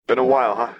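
put-on playful kid voice; young boy voice. Echo greets Jinx.

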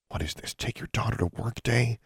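sarcastic mutter under her breath. A narrator's reading. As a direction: grumble it half to herself. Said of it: "Alexandra muttered".

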